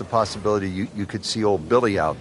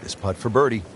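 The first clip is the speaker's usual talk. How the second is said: golf commentator. Acted.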